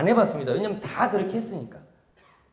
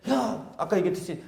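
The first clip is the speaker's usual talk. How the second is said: praising tone. Acted. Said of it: "칭찬을 했어요".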